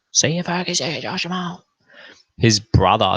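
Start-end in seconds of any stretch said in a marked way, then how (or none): 0.1-1.6 sing-song goodbye. Retold or imitated. Sing-song farewell when kicked out.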